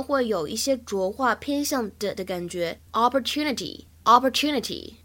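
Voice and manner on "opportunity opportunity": "opportunity" with the final T softened toward a D; American voiced T. Shown as a demonstration. Teacher shows learners American flapping, "opportunity" ending like "-nidy". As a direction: voice the last T in "opportunity". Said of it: "字母T在美式发音当中呢，会有一些浊化".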